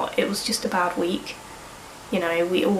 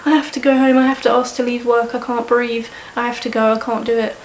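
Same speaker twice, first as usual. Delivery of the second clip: retold panicked pleading; 3 semitones higher than usual. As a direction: replay begging to go home mid-panic. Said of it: "I'm, like, sobbing down the phone".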